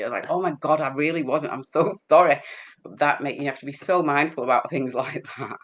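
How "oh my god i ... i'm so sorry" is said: flustered apology breaking into a laugh; mortified, giggling sorry; oh my God, laughing it off. Retold or imitated. Embarrassed apology quoted.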